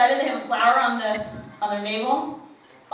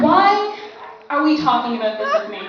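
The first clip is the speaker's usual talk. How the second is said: exasperated; 3 semitones higher than usual. Retold or imitated. Exasperated sister protests.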